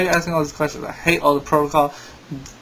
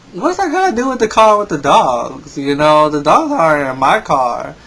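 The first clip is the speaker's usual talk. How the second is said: irritated; 5 dB louder than usual. Retold or imitated. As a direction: snap back at the nosy operator. Irritated at the operator.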